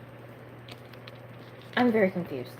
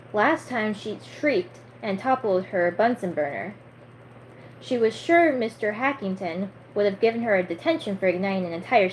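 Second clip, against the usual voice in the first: story narration. A narrator's reading. Reads a novel aloud between chat.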